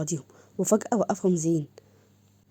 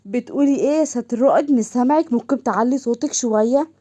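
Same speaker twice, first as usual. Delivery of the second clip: a touch louder, daring her to repeat it; indignant challenge; 3 semitones higher, 3 dB louder than usual. Acted. Officer challenges colleague over an overheard insult, indignant.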